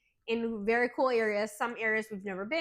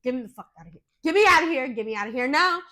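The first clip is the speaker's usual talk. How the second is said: panicked demand; 6 dB louder, faster than usual. Retold or imitated. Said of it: "I was like".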